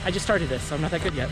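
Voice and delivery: talking mid-jog; while running. Real, not acted. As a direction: speak while running along. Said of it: "I'm gonna go back to running".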